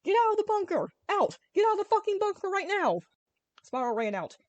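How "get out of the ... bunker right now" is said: much higher and louder barked command; shouted order. A narrator's reading. Army guys ordering Spyro out of the bunker, yelling. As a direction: bellow it like a soldier at gunpoint. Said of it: "ordering Spyro out at gunpoint".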